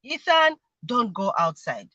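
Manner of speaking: measured, gentle parental instruction; calmer warning. Shown as a demonstration. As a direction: demonstrate a calm correction. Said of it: "I'll be saying it more calmly".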